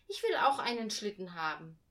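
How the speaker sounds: loud, insistent complaint; indignant. A narrator's reading. Girl insists to father she wants a sled, loud. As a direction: demand your own sled. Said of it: "rief Hannah empört".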